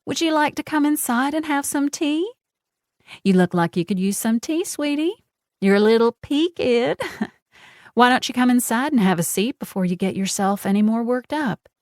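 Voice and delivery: patronize her with sweetness; sugary mock concern. A narrator's reading. Genevieve mocking Casey's anger with sweet concern.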